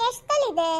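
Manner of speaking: normal talking voice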